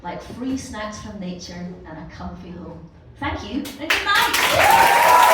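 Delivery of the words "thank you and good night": loud, slow, high farewell to the crowd; stretched, belted goodnight to the room; big sign-off. Real, not acted. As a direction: draw out a big showbiz goodnight. Comedian signs off to crowd.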